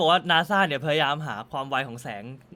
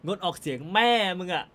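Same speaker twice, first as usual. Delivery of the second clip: mocking angry retort. Commenter sneering back at the abstaining MP, mock-angry. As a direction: throw the word back at him with contempt.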